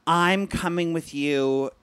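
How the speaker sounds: imitated emotional mom. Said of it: "she gets emotional and she'll say".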